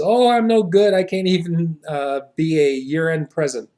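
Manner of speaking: high, loud mock sob of a crying girl; a touch of weepy young woman; mock sobbing. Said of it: "burst out sobbing".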